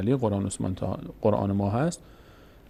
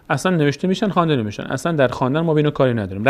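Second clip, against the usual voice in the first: emphatic insistence; 4 semitones higher, 4 dB louder, faster than usual. Shown as a demonstration. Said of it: "insisting letters are silent".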